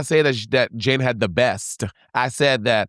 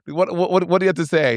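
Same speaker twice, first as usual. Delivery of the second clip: higher mock host question; raised playful host voice; 5 semitones higher than usual. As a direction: ask it pitched up like the host. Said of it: "And RuPaul".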